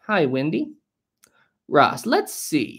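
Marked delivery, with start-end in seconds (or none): 0.1-0.7 breathy unvoiced hi, no tone at all; a soft secret hello; whispered greeting. Real, not acted. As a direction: say it as a whispered aside. Whispered greeting to the same chatter.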